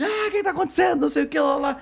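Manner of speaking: high-pitched panicked cry; alarmed crowd. Retold or imitated. Passengers woken by the commotion, alarmed. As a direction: imitate startled passengers crying out. Crowd waking, acted shout.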